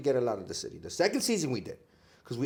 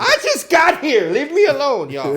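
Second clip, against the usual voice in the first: much higher, louder, slow whine; whiny high newcomer; 13 semitones higher, 11 dB louder than usual. Retold or imitated. A newcomer begging New Yorkers to leave him alone, whining high. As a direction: plead like a harassed tourist. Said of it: "it's like".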